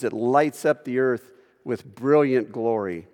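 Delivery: ordinary delivery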